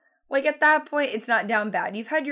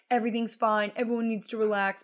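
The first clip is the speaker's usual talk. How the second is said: mock Southern accent; 2 semitones higher than usual. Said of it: "Not in that accent".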